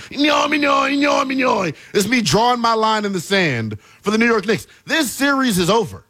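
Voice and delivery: a hammed-up doodle-creature bellow drawing a line in the sand; declaring the series over in a cartoon doodle voice; Doodle Bob shout. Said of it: "do my best Doodle Bob impersonation".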